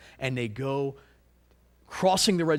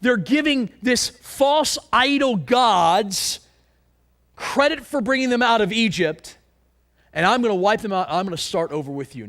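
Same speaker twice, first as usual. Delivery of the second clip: voice of God; 5 semitones higher, 5 dB louder than usual. Retold or imitated. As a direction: proclaim it as an angry God. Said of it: "So God responds and says".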